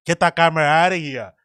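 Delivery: lightly mimicked Canadian-style accent; imitated Canadian-ish accent. Puzzling over where they're from, mimicked Canadian-ish accent. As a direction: try on a Canadian-sounding accent. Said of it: "it's like Canadianish".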